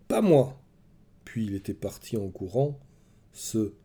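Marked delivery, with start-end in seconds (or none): 0.1-0.6 high, loud anguished cry; child's shout. A narrator's reading. Boy bursting from hiding, screaming at his mother. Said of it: "avait bondi de sa cachette et hurlé".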